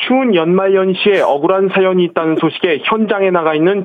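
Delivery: formal TV news lead-in; parody news anchor. Pretend. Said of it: "아나운서랑 이제 취재 기자 해보겠습니다".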